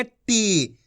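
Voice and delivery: टी with a drawn-out ee; long ī. Shown as a demonstration. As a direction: stretch the vowel of टी. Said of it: "खींच खींच के पढ़ना है".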